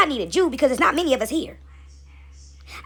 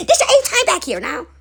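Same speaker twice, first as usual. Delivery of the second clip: exasperated God; 8 semitones higher, 5 dB louder than usual. Acted. God exasperated, repeating the count.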